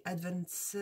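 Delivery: English name in a French accent, slowly; attempted English, heavily French-accented; Frenchified English accent. Real, not acted. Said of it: "avec mon accent anglais, franchisé".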